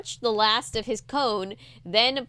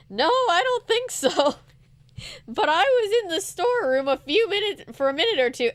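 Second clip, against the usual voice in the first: high, loud shopkeeper voice; Mister Paskey voice; 8 semitones higher, 4 dB louder than usual. Acted. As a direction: chirp it like a cheery shopkeeper. Paskey voice again.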